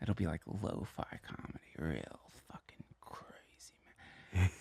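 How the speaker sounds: low, hushed stoner hubris, trailing to a whisper; mock stoner bravado. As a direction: play the cocky psychedelic college kid. Mocking his own cocky young self.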